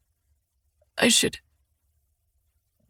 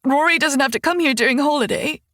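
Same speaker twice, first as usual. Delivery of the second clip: crying. Acted. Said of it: "tears still spilling, and she hiccups".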